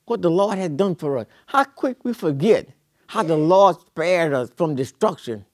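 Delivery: rising preacher's refrain, hammered home; preaching. Acted. Preacher pressing the congregation, fervent preaching. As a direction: preach it, climbing each repeat.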